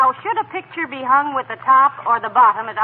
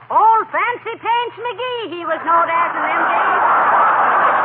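a hint of a slow, high old codger; teasing drawl in his voice; mock old-timer; 6 semitones higher, 5 dB louder, much slower than usual. Molly teases the old-timer in his voice, slow.

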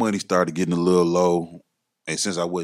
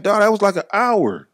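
higher, louder mock complaint; retold exasperation; 13 semitones higher, 7 dB louder than usual. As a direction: complain in a raised, incredulous voice. Retold confrontation over long wait.

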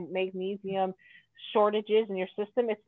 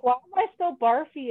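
puzzled complaint; 3 semitones higher, 4 dB louder than usual. Retold or imitated. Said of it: "I was like".

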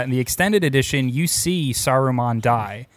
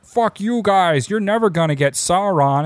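mock Saruman taunt; 6 semitones higher than usual.

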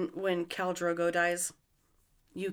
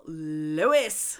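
attempted cartoon impression, lower and drawn out; Family Guy voice; 4 semitones lower than usual. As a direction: stretch "Lois" out like a cartoon character. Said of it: "I try to mimic Lois from The Family Guy".

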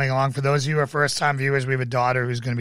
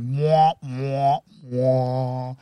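mock whining; much slower than usual. Shown as a demonstration. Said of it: "wah, wah means that you're not fun".

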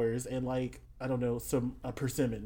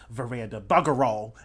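Australian cursing, bursting louder on the curse; Australian tirade; 8 dB louder than usual. Acted. Cursing a rival at the word veranda, Australian tirade. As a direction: curse her in a broad Australian accent. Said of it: "Australian tirade about how she's a terrible person".

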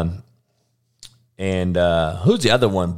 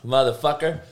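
usual speaking voice

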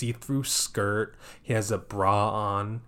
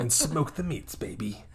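mock sultry catchphrase; 5 semitones higher, 3 dB quieter than usual.

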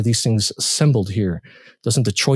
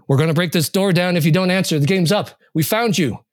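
higher, firm warning through the door; threatening through door; 9 semitones higher than usual. Acted. Searchers at the door threatening to break in, higher. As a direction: call out the final warning.

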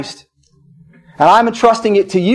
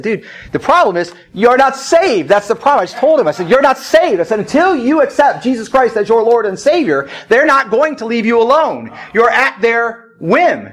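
raised, insistent admonishment; firm warning; 4 semitones higher than usual. Retold or imitated. Pastor bluntly warns a troubled man, firm and insistent.

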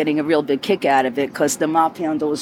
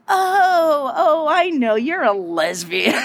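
imitating mom; 8 semitones higher, slower than usual. Mom's reply voiced in story.

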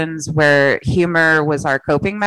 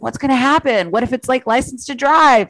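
put-on raised, anxious childish voice; a worried kid asking, pitched up; high kid voice; 8 semitones higher than usual. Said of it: "I was like".

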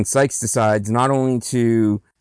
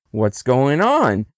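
slow, mildly acted innocent question; feigned innocence; slower than usual. Fagin approaching the little girl, feigned innocence. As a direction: play lightly at knowing nothing. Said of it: "Pretending like he doesn't know what's happening".

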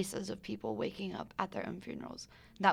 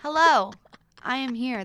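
grand entrance; 4 semitones higher, 10 dB louder than usual. Acted. Guest makes grand entrance.

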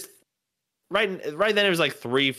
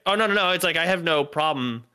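higher-pitched backing down; hasty backpedal; 4 semitones higher than usual. Retold or imitated. Comic retelling himself backing down over Mormons, high hasty backpedal. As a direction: backtrack in a hurry, starting high. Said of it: "tried to back down".

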